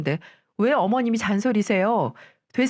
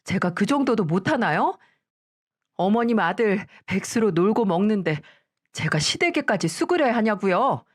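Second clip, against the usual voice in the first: sharp, slightly higher talking back to the mother-in-law; defiant daughter-in-law; 3 semitones higher than usual. Acted. Daughter-in-law snaps back at her mother-in-law in an indignant voice.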